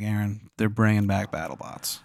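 slow, bad Maryland accent; Wizard of Baltimore. Wizard breaking news to Aaron, in a terrible Maryland accent. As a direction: lay on a Maryland accent, unhurried. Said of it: "it's terrible Maryland accent".

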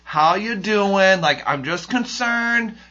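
slow, sugary mock concern; petty fake concern. Petty email to the angry guy, mock concern. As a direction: sweetly needle him. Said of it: "because I'm petty".

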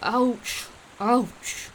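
short yelps of ouch; lightly acted pain cries; howled in pain. A narrator's reading. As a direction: yelp as if jabbed by a thorn. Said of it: "Gator howled".

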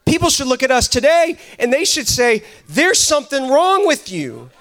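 fervent sermon delivery; a pastor exhorting his church; preaching. Acted. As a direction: preach it with conviction. Preaching to congregation.

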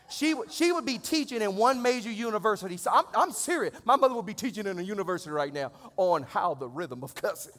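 loud, amused preacher riff; animated comic preaching. Real, not acted. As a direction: play up the joke for the congregation.

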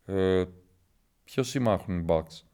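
low, hushed conspiratorial voice; lightly acted gossip sharing secrets; mock secretive confidant. Contestant secretly warning a newcomer about outside gossip, low and hushed.

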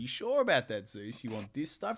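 a cheeky trickster pushing the bargain; sly trickster titan. Retold or imitated. Titan voiced tricking Zeus.

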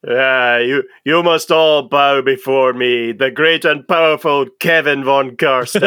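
grand boastful vampire lord; lightly voiced dark lord decree.

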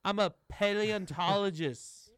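Jason Statham turning Walken. Acted. Co-host's Statham act slipping into a Walken impression. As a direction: start Cockney, drift off by the end. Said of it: "I turned into Christopher Walken at the end of that".

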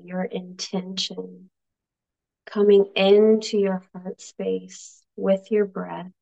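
unhurried meditation with long pauses; calm guide, softening into long silences; guided meditation. Acted. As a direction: leave space after each instruction to breathe. Leads meditation, spaced after coaching.

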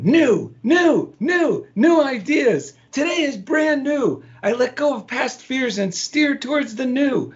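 excited affirmation reading. Retold or imitated. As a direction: read the affirmations with rising joy. Reading his affirmations aloud.

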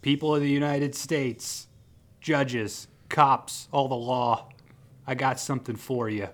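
mild mock yell to a crowd; imitating a man yelling, held back; retold yell. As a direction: proclaim it like a half-yelled defiant speech. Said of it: "And Paul yells".

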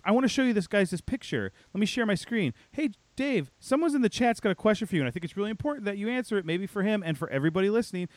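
high, quick mock bubbly patter; bubbly newcomer. Newcomer puts studio head on the spot, mock bubbly. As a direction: imitate a chirpy presenter rattling along. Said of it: "way too bubbly".

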